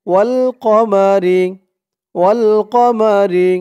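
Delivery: slow drawn-out ওয়াশ-শামসি; slow model word. Shown as a demonstration. Teacher modelling the word for students, slowly. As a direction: stretch ওয়াশ-শামসি syllable by syllable.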